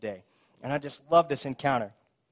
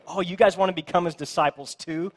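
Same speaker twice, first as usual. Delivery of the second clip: higher, mock-innocent question; sarcasm; 4 semitones higher, 4 dB louder than usual. Healed man needling the Pharisees, sarcastic. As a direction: throw it back in their face, teasingly. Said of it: "of sarcasm. He's throwing it back in their face".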